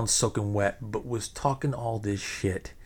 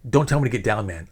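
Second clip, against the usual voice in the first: big-mouth retort; 5 dB louder, faster than usual. Retold or imitated. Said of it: "skinny, big mouth guy".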